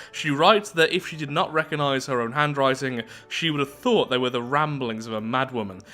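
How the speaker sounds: measured read-aloud narrator voice; story narration. Acted. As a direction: read the lore out evenly, like an audiobook. Reads game story text.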